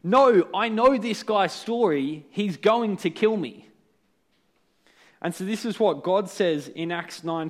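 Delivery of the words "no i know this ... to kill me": higher, louder and slow, a mock panicked plea; panicked protest. Ananias protesting to God, mock panicked and pleading. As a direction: act out someone frightened of a killer. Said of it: "he's freaking out".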